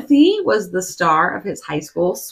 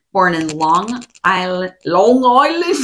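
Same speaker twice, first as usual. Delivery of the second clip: put-on a failed stab at a Long Island accent; clumsy mock Long Island accent; 2 semitones lower than usual. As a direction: try a New York twang on Long Island. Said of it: "I cannot do accents".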